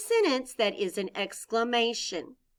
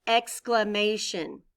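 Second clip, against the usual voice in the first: slow clear model word; slower than usual. Shown as a demonstration. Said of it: "Say that word with me".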